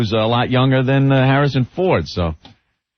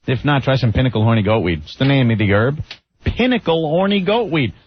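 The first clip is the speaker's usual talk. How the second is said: upbeat radio ad pitch; ad read. Acted. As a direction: sell it like a radio spot. Reads a sponsor ad.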